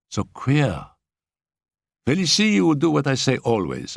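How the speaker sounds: a hint of a giggling little girl plotting; gleeful schoolgirl. A narrator's reading. Annette recounts hypnotism.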